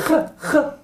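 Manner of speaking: "ja" said as a scraping Arabic خ; short "ja" bursts with a harsh kh; rasped kh. Shown as a demonstration. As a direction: rasp "ja" at the back of the mouth, short. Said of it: "tres palabras con ja y ja y ja".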